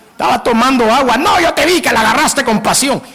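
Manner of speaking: hammed-up jealous spat over nothing; mock jealous quarrel. Acted quarrel, jealous partner.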